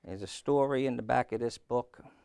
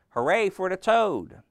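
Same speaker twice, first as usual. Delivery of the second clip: raised, higher-pitched hurrah; shouted cheer; 8 semitones higher, 7 dB louder than usual. A narrator's reading. Frog to Toad on stage, shouted cheer. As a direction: cheer loudly for a performer. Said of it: "as he shouted".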